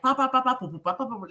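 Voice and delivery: rapid "pa-pa-pa" syllables, starting high, then dropping; mimicked unstoppable talking in nonsense syllables; imitated nonstop chatter. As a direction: rattle off syllables like piano keys. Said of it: "we are pressing this piano".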